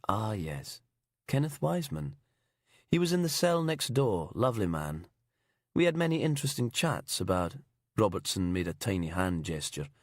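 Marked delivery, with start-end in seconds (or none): 0.1-7.5 fake English accent. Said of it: "fake English accent".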